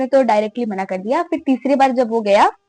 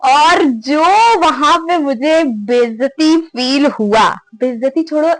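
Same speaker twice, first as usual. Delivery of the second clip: slow, much louder laughing words; giggling at the humiliation; 3 semitones higher, 7 dB louder, slower than usual. Real, not acted. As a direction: laugh through the embarrassment. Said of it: "इतनी तेज मुझे हंसी आ रही थी".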